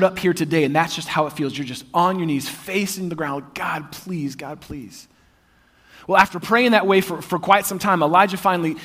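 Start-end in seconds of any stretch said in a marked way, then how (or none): 3.5-5.1 softer, fading; hushed pleading prayer. Acted. Person facing the ground begging God, hushed. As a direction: beg quietly.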